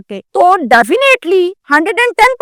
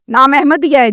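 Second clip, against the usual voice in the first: retold officer's question in usual voice; police questioning. Police officer checks the boy's name with the father, questioning. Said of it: "تو police نے پوچھا".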